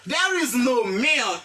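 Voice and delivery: very slow, carefully spaced English model sentence; lecture lente. Shown as a demonstration. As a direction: say each word slowly so the class can repeat. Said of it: "on a dit". (phrase modèle dite très lentement)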